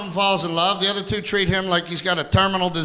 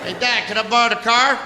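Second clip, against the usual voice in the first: mock teenage son; 7 semitones higher than usual. Son asks dad for car.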